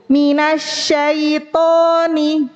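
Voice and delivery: slow MINASYAITONI with plain t before o; light ta plus o. Shown as a demonstration. Teacher showing the mistake, plain ta given an o. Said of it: "bacanya huruf ta, tapi dikasih o".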